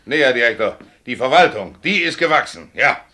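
lauter, höher empörter Protest. Acted. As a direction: schleudert dem Direktor die Worte laut entgegen. Fahrer beschwert sich beim Direktor. (empört und laut gegen den Direktor)

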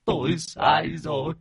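high, slow sobbing lament; tearful remorse. Acted. Father's spirit tells Lập he was forced, sobbing. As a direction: sob the confession, dragging the words. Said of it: "nước mắt lưng tròng".

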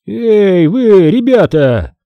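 a hint of a creaky old man calling out; grumpy old man shouting at kids. A narrator's reading. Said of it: "проскрипел мистер Амк".

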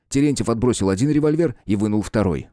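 ordinary delivery

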